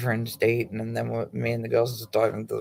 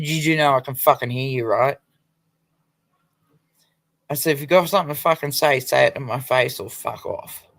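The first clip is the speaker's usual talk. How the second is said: a firm, raised challenge; retold confrontation; 4 dB louder than usual. A woman confronting the girl gossiping behind her, with a firm raised challenge. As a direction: square up to her and dare her to speak.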